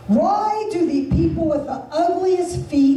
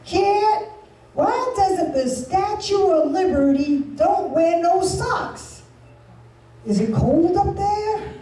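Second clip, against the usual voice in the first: moron fan voice; 3 semitones higher than usual. Retold or imitated. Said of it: "this moron comes up to me".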